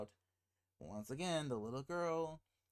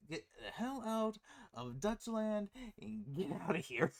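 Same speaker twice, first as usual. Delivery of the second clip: higher-pitched urgent pleading, acted out; 5 semitones higher than usual. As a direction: plead to get away, half laughing by the end. Voices a parent desperate to leave.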